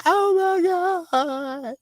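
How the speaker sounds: high, mock-horrified gasp; high-pitched imitation of a horrified woman; shocked neighbor. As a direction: play the squeamish neighbor. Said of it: "she said".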